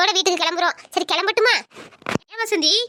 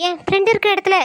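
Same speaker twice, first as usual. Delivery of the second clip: put-on tearful young niece; 3 semitones higher than usual. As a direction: play her as a wounded teen close to tears. Same Sandhiya voice.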